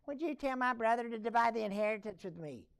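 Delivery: a mild, mock whine; whining complaint. Man interrupts Jesus about his inheritance, lightly whining. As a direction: put a touch of grievance into the plea. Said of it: "You hear the whine in his voice?".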